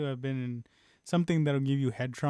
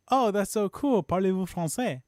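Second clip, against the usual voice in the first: higher-pitched retold enthusiasm; eager reaction; 6 semitones higher, 3 dB louder than usual. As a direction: re-enact being impressed and hopeful. Retelling own eager reply to friend.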